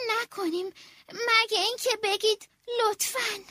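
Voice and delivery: flustered stammer. Acted. Nervous snail secretary refusing the queen. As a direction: fumble the words in a fluster. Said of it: "حلزون دست پاچه".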